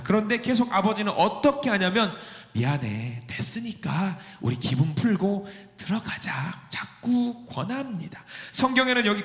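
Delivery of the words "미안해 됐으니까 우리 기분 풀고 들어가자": pleading father. Acted. Father coaxing son.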